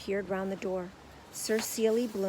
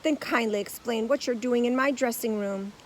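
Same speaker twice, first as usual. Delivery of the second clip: booming; 3 semitones higher, 7 dB louder than usual. A narrator's reading. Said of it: "boomed the great actor".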